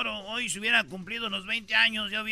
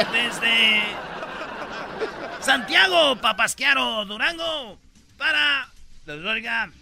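loud sign-off; 2 semitones higher, 5 dB louder, slower than usual. Real, not acted. Sign-off shouted over laughter.

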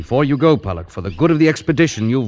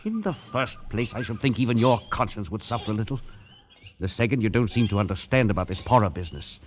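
grave quiet; 6 dB quieter than usual. Acted. Lecturing friend gravely.

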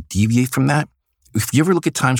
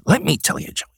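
higher, raised showman voice; Stan Lee impression; 9 semitones higher than usual. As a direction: do the older mentor, pitched up. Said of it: "my Stan Lee impersonation".

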